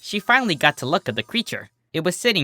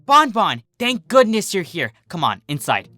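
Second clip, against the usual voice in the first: much higher, hurried call; urgent relief; 6 semitones higher than usual. Acted. Minuet pulls Bon Bon inside, urgent and high. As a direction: rush her in. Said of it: "Minuet ordered".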